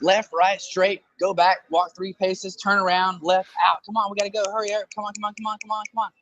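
high, impatient mock mother nagging; exasperated mom. Mom outside the funhouse hurrying her lost son, high impatient voice. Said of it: "she's yelling".

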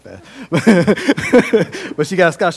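laughing disbelief. Real, not acted. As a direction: laugh through the words. Teasing girl who got scholarship.

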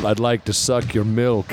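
slow, lightly hammy vampire. Pretend. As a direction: do a mild Dracula drawl. Horchata vampire line.

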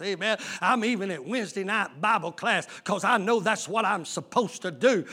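a hint of a pious boaster listing his duties; mock self-righteous churchgoer.

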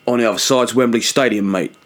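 put-on London tour-guide accent; recovered London accent, matey patter. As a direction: point out sights like a London guide. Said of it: "Much better".

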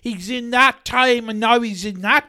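hammed-up wonder; mock amazement. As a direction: marvel mockingly, ending on a high whoop. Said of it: "And people are like".

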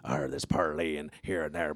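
slow, growly pirate arr; a light hammed-up pirate. Shown as a demonstration. Explaining accents to friends, slow mild pirate voice. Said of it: "talk like a pirate".

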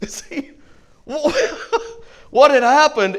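laughing through the words after the joke. Real, not acted. Preacher laughs at his own story's punchline. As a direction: chuckle it out, amused.

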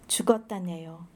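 measured, solemn reading of a Korean poem; poetry reading. Acted. Reading her Gwangju poem aloud to the audience, solemn recital.

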